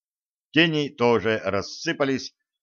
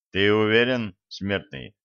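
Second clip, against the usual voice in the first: a dark spirit taunting a mortal; menacing spirit. Acted.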